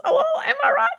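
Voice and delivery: high, laughing self-pleased quip. Real, not acted. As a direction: crack up at your own pun. Laughing at own joke.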